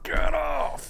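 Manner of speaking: very high squeaky "get off"; squeaky shout. Retold or imitated. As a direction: yell it in a tiny high voice. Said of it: "It was sort of".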